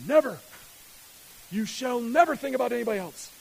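loud, high mock shout; nature crying out. Selfish nature crying out against others, loud shout. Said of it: "your nature's crying out to you".

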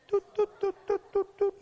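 very high, bouncy "doot doot" for a hopping bunny; hopping sound effect. Retold or imitated. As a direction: chirp it out high and playful like a cartoon bunny hopping.

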